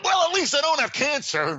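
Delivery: high, laughing punchline; laughing through the line. Real, not acted. Telling the patient's punchline while laughing, high. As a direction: squeeze the words out through laughter.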